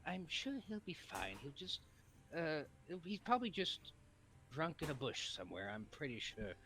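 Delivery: lightly voiced hero chatter; casual heroes talking; earnest anime hero. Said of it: "anime protagonist voice".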